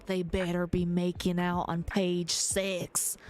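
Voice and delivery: slow, lightly hammed-up granny demand; imitating an indignant granny; mock raging granny. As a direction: play a granny getting worked up, drawn out. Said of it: "She will rage. Calm down, Granny. She's all".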